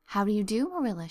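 a mildly cordial greeting; cordially. Acted. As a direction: welcome the guest politely, just a touch warm. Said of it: "she said cordially".

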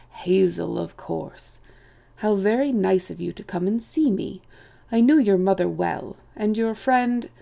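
lightly voiced chief, politely welcoming; a touch of lofty, practised courtesy; gracious host greeting young visitors; courteous old chief rabbit.

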